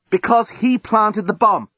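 high, slow, emphatic statement; exasperated answer. A narrator's reading. Journalist answers captive's why, exasperated and emphatic. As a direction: spell it out, leaning on HE.

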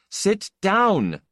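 rough, angry order to a panicking friend. Acted. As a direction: force him down with your voice. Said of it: "his voice was very angry".

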